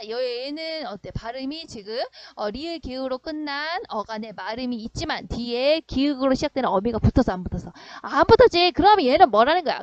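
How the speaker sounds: ordinary delivery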